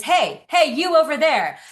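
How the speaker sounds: lightly voiced questioning newborn; baby's inner voice. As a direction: play the baby wondering what to feel. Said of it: "her nervous system is saying".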